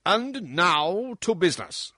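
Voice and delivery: loud, high pompous minister; fat prime minister. Acted. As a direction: bark it out like a fat official. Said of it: "said the Prime Minister, a very fat man".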